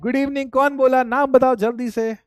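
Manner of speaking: brisk demand. Real, not acted. Demanding who greeted.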